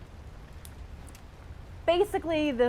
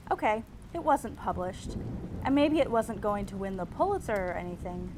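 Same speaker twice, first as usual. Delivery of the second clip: reading own essay. Acted. Reads her tenth grade essay.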